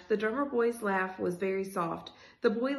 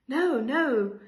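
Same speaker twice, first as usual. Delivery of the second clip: louder, higher frantic protest; 4 semitones higher, 8 dB louder than usual. A narrator's reading. Boy waking from a nightmare, frantic. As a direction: cry out in alarm, read as story dialogue. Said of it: "He sounded frantic".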